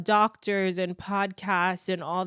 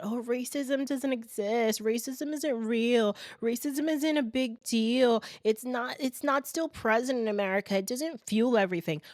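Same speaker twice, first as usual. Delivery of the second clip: mocking; 5 semitones higher than usual. Mocks people denying racism.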